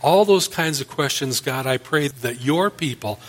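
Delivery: earnest, measured pastor's prayer; closing prayer. Acted. Pastor praying for the congregation and nation, earnest prayer. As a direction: pray it over the congregation, steady and sincere.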